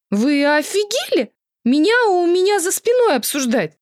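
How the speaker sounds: outraged. Acted. Drunk girlfriend to cheating ex, outraged high cry. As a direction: explode at being discussed behind her back. Vasilisa outraged at phone call.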